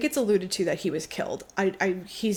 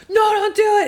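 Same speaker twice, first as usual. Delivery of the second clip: higher, louder urgent cry; mock plea; 12 semitones higher, 8 dB louder, much faster than usual. Retelling Douglas begging Montag, hammed-up cry. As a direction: shout it to stop him. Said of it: "was like".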